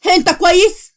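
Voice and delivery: worried, pitch rising high on انت كويس; fearful plea for an answer; anxious question. Acted. Bride calling her missing groom, high anxious question.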